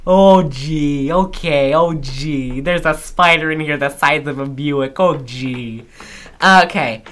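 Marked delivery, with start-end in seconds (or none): 0.1-5.8 lightly voiced fussy old lady; a hint of a Wisconsin grandma fretting. Spider joke for the friend, light old-lady voice. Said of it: "old lady that doesn't know how".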